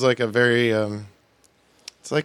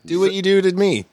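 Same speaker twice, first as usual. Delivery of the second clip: mock sultry; 10 semitones higher, 6 dB louder than usual. Mock-sexual egging on.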